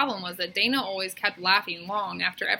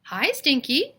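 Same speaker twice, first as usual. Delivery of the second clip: chipmunk voice; 7 semitones higher, 6 dB louder, slower than usual. A narrator's reading. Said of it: "said Charlie the Chipmunk".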